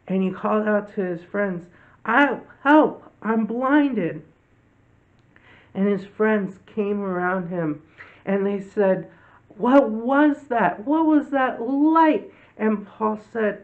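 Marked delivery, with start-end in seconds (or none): 2.1-4.2 louder, higher call for help; Paul calling his friends in mock panic; mock cry for help. Blinded Saul cries out. 9.6-12.3 higher, louder bewildered question, slow; astonished friends. Acted.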